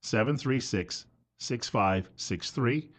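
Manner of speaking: number read slowly and softly; slow, clear phone number. Real, not acted. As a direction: spell out each digit deliberately. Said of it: "give you the telephone number".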